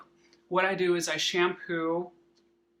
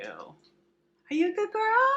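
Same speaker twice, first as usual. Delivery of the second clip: very high, slow, louder squeal; talking to a dog; 4 dB louder, slower than usual. Real, not acted. Cooing at the dog.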